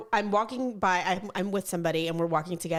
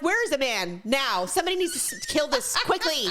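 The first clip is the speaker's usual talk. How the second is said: higher mock-frantic call for help; retold urgent demand; 4 semitones higher than usual. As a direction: re-enact demanding help right now. Acting out her urgent demand.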